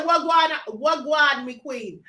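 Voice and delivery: lightly attempted Jamaican greeting, drawn out; bad Jamaican accent. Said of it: "my Jamaican accent's terrible".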